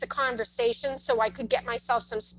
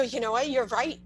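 agreeing with him lightly, rising into a high laughing tease; playful agreement; 4 semitones higher than usual. Retold or imitated. Mother humoring her son's insult, high and laughing. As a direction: turn his insult into a cheerful joke. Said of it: "I go".

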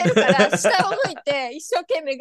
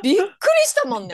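laughing; 5 semitones higher, much faster than usual. Real, not acted. Laughing while recalling the surprise.

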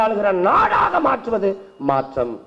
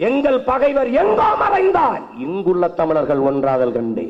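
measured, swelling recital of the verse; poem recital. Acted. Orator reciting the Tamil poem to the crowd, proud. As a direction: lift the last line like a vow.

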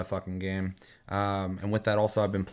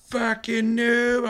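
higher, slow mocking sneer at "noob"; toxic gamer insult; 5 dB louder, much slower than usual. Mimicking toxic players insulting a newbie, high slow sneer. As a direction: drag it out like an online troll. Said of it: "people would be like".

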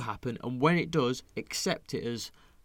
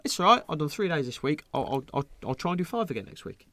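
upbeat self-reassurance; 4 semitones higher than usual. Retold or imitated. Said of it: "I'm like".

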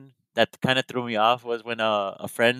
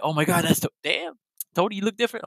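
amazed deputy; 7 semitones higher, faster than usual. Retold or imitated. Deputy amazed by his look.

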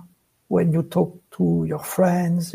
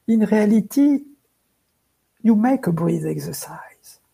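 spacious phrasing with breathing room between words; talking slowly. Real, not acted. Guest explaining slow talk as a breath exercise, talking slowly. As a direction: leave a calm space between the phrases. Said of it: "you were talking slowly as you were doing it".

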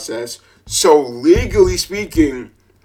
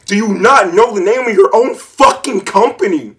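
higher, louder furious tirade; angry rant; 8 semitones higher, 5 dB louder than usual. Real, not acted. Ranting at the seller's stupidity, loud and furious. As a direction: tear into the seller. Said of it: "I'm pissed".

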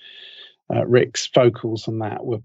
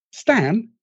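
"Stan?" asked much higher, puzzled; high questioning "Stan?"; mocking the mishearing; 9 semitones higher than usual. Shown as a demonstration. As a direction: squeak "Stan?" up high in disbelief. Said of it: "I went".

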